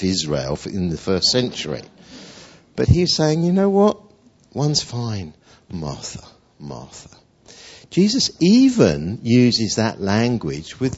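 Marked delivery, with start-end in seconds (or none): 3.4-7.1 tender reassurance. Acted. Jesus reassuring Martha softly.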